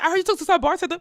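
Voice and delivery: high and loud, re-enacting the girlfriend; shouting her line back in disbelief; loud mock yell. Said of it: "what she said".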